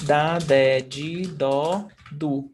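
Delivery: da, de, di, do, du with DJEE for di; regional DJ sound. Shown as a demonstration. Teacher extends the rule to D, regional DJ sound. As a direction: recite da, de, di, do, du, softening di to DJEE. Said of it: "the same goes for".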